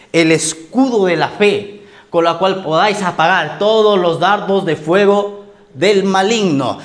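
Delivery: slow, deliberate Bible reading; measured pulpit reading, word by word; scripture reading. Acted. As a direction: read the verse out slowly to the congregation. Reads scripture aloud to congregation.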